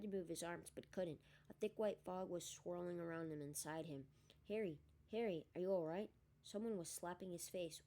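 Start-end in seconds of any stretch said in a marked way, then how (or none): 4.5-6.1 louder, urgent call to wake him; urgent worried call. Acted. Friends calling a fainted Harry, urgent and worried. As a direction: shake him awake with worry.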